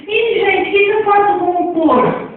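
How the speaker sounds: mock puzzlement. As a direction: play it up like a puzzled student. Teacher feigns puzzlement to class.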